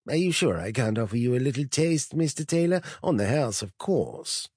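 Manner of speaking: high, sweet, oily offer; silky tempter. Acted. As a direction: dangle the taste temptingly. Host tempting again.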